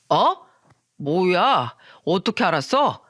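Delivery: acted taken-aback man; startled. Friend startled that the wife knows his company, taken aback. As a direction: react as if caught off guard.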